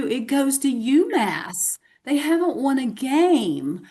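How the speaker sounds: slow Southern drawl, award announcement; drawn-out Southern US accent. Acted. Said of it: "with my Southern accent".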